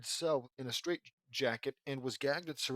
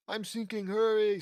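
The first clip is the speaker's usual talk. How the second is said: high, urgent plea getting louder; rising panicked shout; urgent cry; 7 semitones higher, 7 dB louder than usual. A narrator's reading. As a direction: call for help as you sink. Sinking, calling for rescue.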